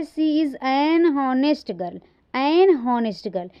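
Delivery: put-on "an" in "an honest girl" leaned on and drawn out slowly; slow teaching read pressing on "an"; stress on AN. Shown as a demonstration. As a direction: hit the article "an" in "an honest girl". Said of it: "वहाँ पर सही है कि an honest girl".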